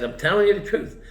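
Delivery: emphatic. Retold or imitated. Insisting to Dean Fearing.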